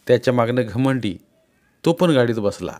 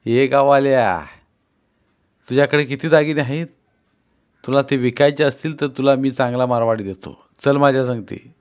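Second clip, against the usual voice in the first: bossy driver; 3 semitones higher, 4 dB louder than usual. Acted. Sudama bullies the villager.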